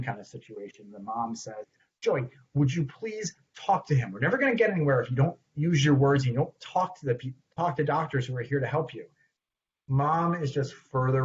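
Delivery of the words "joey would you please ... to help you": pleading mother. Acted. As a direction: urge a silent child to talk. Mom pleads with silent child.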